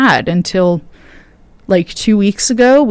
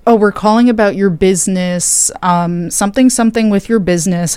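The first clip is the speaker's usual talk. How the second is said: robot voice. Retold or imitated. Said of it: "The one yesterday was a robot voice".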